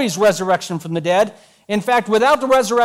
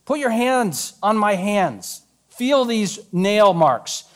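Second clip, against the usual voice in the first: very slow, deliberate offer; slow invitation; much slower than usual. Acted. Jesus showing Thomas his wounds, slow and gentle. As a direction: coax him slowly closer.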